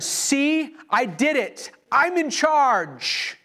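gloating rebel. Retold or imitated. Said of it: "he starts to fly".

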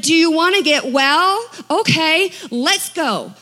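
upbeat can-do invitation; cheery Jesus. Retold or imitated. Jesus cheerfully offers healing.

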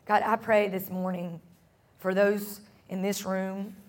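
calm, unhurried prayer voice; closing prayer. Acted. Pastor praying over the congregation at the close, calm and unhurried. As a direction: lay each line gently before God.

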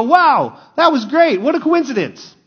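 high-pitched mock wonder; acted amazement. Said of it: "It's funny how we go".

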